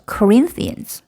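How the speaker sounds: Corinthians with RIN held longer; lengthened stressed syllable. Shown as a demonstration. Teacher showing the stressed syllable lengthens, long RIN in Corinthians. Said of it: "길이가 다른 음절에 비해서 길어지죠".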